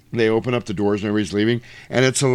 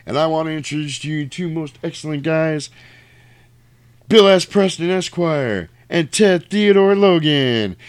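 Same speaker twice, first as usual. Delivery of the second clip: high-pitched stage introduction, building louder; Billy the Kid; 6 semitones higher, 3 dB louder than usual. Retold or imitated. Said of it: "Billy the Kid comes out and is like".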